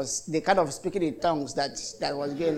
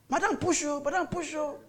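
high, softer mocking chant of push; mock nurse urging; 10 semitones higher, 6 dB quieter than usual. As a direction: drone the order like a bored nurse. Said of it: "you'll be hearing them ask".

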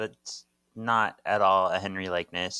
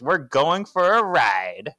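dramatic announcement; 4 semitones higher, 5 dB louder than usual. Acted. Acting Paige's announcement before escape.

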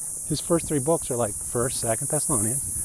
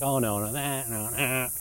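mocking voice. Defenders objecting to the criticism, mildly mocking. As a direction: lightly parody a defensive believer, words stretched. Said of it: "yes, I have my mocking voice on".

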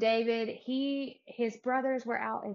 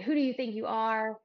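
mildly indignant taunt, a little louder; mock challenge; 6 dB louder than usual. Podcaster voicing Goliath taunting the Israelites, mildly defiant. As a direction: throw down a challenge as a retold giant.

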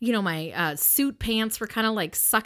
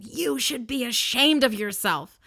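raised, drawn-out mom scolding; 4 semitones higher than usual. Retold or imitated. Woman shaming brawling brothers at funeral, stern mom voice. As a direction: shame them like naughty children. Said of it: "some sort of a mom voice".

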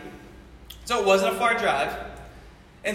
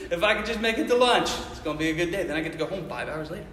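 chuckling through the wish; amused retelling of the lunch wish; laughing; 4 semitones lower, faster than usual. Retold or imitated. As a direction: laugh your way into the line. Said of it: "you're like".

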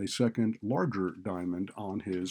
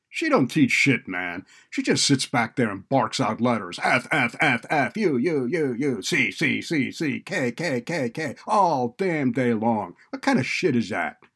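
loud, higher-pitched street-tough complaint; defiant student; 4 semitones higher, 9 dB louder than usual. A narrator's reading. Student griping about typing drills, loud and defiant. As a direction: gripe loudly, mocking the repeated drill. Narrator voices Deshawn complaining.

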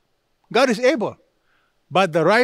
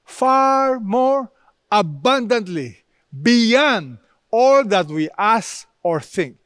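"far more abundantly" drawn out very slowly, higher; rising emphasis; 3 semitones higher, slower than usual. Shown as a demonstration. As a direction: stretch "abundantly beyond", then land it. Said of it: "Such is our God".

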